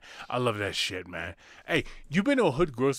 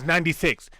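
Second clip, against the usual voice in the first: condescending. Retold or imitated.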